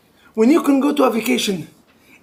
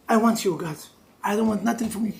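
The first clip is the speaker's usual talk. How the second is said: quiet prayer; 4 semitones lower, 8 dB quieter, faster than usual. Acted. Prayer addressed to God.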